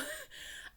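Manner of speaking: a high, breaking laugh of relief; laughing cry. A narrator's reading. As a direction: let the relief crack into a laugh.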